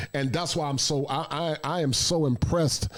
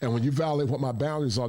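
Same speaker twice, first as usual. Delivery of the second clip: normal talking voice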